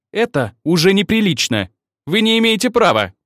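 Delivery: high, loud outraged scolding; indignant protest. Acted. Ольга возмущённо отчитывает Максима, высоко и громко. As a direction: protest hotly, pitch climbing.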